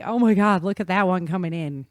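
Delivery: loud, excited "Oh my God"; excited exclamation. Retold or imitated. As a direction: call it out in awe. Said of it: "I'm just like".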